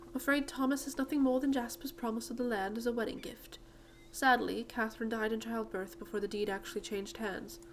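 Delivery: lightly acted British lady; British accent. Miss Holdsworth explains the missing deed, British accent. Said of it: "I gave her a British accent".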